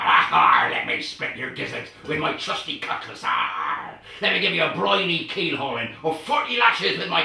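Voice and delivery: put-on slow, growling pirate accent with loud hars; hammed-up West Country pirate voice; pirate speak. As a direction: roar it like a swaggering pirate captain. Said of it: "because I was speaking pirate".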